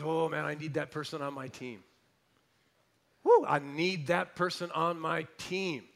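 a hint of an eager God; eager recruiting tone, loud; God voiced. God looking down, eager to recruit, loud. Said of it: "God looked down and goes".

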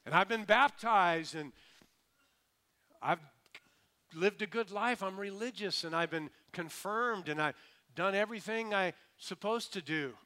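earnest plea of a churchgoer; self-justifying religious man. Acted. Religious man lists his credentials.

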